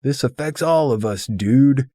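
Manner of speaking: high, fast, very loud shout after someone leaving; hollering after the departing friend; calling after him. Retold or imitated. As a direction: bellow it after him as he storms out. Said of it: "Walter calls after him".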